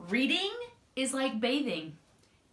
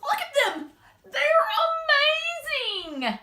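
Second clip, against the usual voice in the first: higher, eager delight at the snails; amazed Norman; 12 semitones higher, 4 dB louder, faster than usual. Acted. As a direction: sound starstruck. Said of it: "said Norman".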